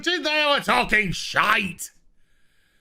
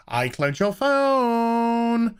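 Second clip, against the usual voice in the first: slow, high mock gloat; slow smug taunt; gloating villain; 4 semitones higher, much slower than usual. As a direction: drag it out smugly, a touch higher. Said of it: "she's just like".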